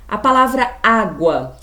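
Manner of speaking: "água" with a wide-open, stressed first á; open vowel. Shown as a demonstration. Teacher gives pupils an example, "água" with strong open á. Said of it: "eu pronuncio com a boca aberta".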